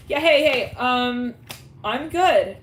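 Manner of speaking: flustered greeting. Retold or imitated. Flustered person greeting their date.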